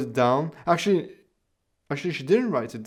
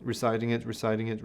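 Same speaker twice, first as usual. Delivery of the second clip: fading recitation; 2 semitones lower, 5 dB quieter, faster than usual. Shown as a demonstration. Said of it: "she continues, "Softer, softer".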